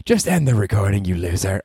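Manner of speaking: put-on girlfriend jab; mock girlfriend.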